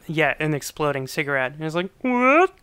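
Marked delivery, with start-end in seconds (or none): 2.0-2.5 high-pitched mock "what?"; mock surprise. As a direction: squeak it out as an imitated startled reaction. Retold reaction to exploding cigarette.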